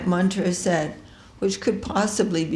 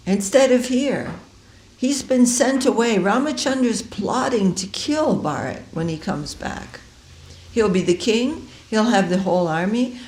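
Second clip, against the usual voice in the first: scheming maidservant; 5 semitones higher than usual. Acted. Manthara whispers poison to queen.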